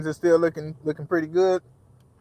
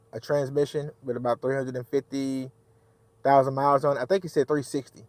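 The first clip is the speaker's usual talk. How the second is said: bit tongue. Real, not acted. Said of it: "I'm talking kinda funny, y'all, 'cause I bit my tongue".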